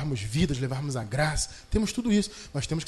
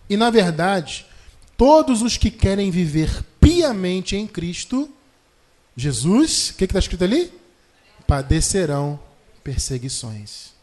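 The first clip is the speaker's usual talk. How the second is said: louder and slow, pressing each phrase; loud scripture reading; 7 dB louder, slower than usual. Shown as a demonstration. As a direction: proclaim the verse to the congregation. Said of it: "Segunda Timóteo três doze".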